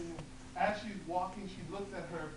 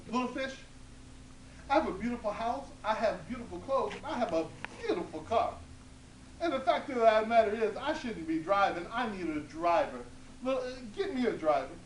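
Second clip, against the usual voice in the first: put-on high, loud demanding old woman; loud bossy old woman; 4 semitones higher, 6 dB louder than usual. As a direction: demand a driver, pitched up.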